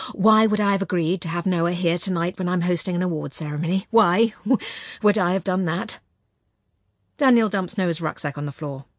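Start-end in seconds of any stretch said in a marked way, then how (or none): 0.1-6.0 suppressed fury. Acted. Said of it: "my voice is trembling with the effort".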